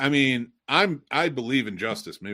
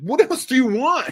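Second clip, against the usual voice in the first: shrill, very high, loud, exasperated yell; 13 semitones higher, 7 dB louder than usual. Retelling a night of being yelled at, and finally yelling back: retelling yelling back. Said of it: "to the point where I yelled back".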